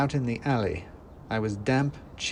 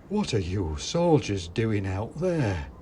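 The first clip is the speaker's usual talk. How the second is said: toy maker calling; slower than usual. A narrator's reading. Toy maker calling down to his soldiers, slow. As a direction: call down slowly like a stern old man.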